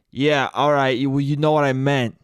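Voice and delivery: lightly acted weary concession; exhausted dad. Dad gives up arguing with mom, mildly exhausted. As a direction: give in like a worn-out husband. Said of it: "the exhaustion of my father".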